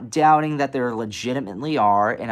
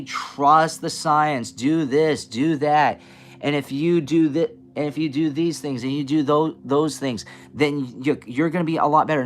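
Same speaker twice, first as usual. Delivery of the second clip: mock authority voice. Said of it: "they say".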